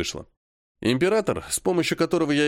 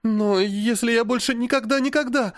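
put-on much higher, begging girl's voice; pleading girl; 10 semitones higher than usual. A narrator's reading. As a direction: plead like a tearful child. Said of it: "умоляюще спросила она". (умоляюще, высоким голосом)

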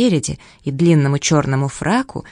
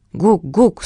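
penguin call; 4 semitones higher than usual. Acted. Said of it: "сказал пингвин".

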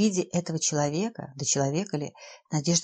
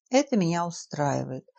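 icy voice. Acted. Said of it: "прозвучал ледяной голос".

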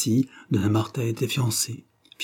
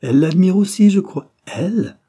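much higher, louder outburst; gleeful roar; 6 semitones higher, 8 dB louder than usual. A narrator's reading. Pollack delights in Drouce's wrong guess, roaring. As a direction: pitch it up high in roaring delight. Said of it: "rugit-il".

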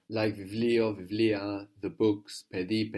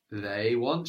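slow, drawn-out "they" before "want"; emphatic "they", rising at the end; stress on THEY. Shown as a demonstration. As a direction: stretch and stress the word "they". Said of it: "stressing the word for they".

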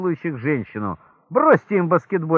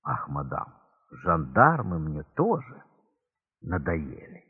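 weary voice; 10 semitones lower, 6 dB quieter, slower than usual. Acted. Weary client in brothel.

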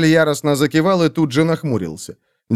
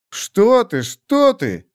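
flustered; 8 semitones higher, much slower than usual. Acted. Flustered husband protests.

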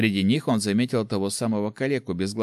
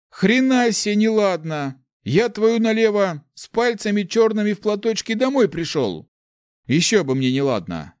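much higher, louder outraged yell; outraged shout; 12 semitones higher, 6 dB louder than usual. Acted. Big man yelling back at Nick, outraged.

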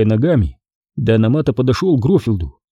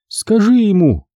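a higher, pleading please; begging; 10 semitones higher than usual. A narrator's reading. Pat begging Alan to speak, pleading. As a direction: implore him gently but urgently. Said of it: "взмолилась Пэт".

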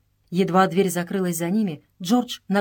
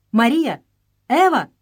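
frantic cry; 5 semitones higher, 7 dB louder than usual. A narrator's reading. Sisters abducted, frantic cries.

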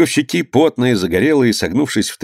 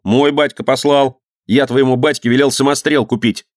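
put-on raised-pitch childish bickering; boys' squabble; 5 semitones higher than usual. Two boys bragging about their fathers, quarrelling. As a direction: argue back like a boy.

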